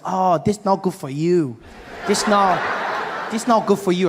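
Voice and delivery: lightly voiced Asian car dealer, broken English; Asian dealer impression. Car dealer telling newcomer he lacks credit, mild accented impression. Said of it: "this Asian gentleman helping me".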